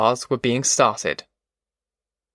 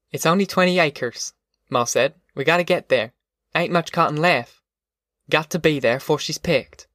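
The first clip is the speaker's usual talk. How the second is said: lightly voiced mother, somewhat higher; Ma, urging; 3 semitones higher than usual. Ma answering Al about the cotton, mildly urging. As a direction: urge the family along, in lightly acted dialect.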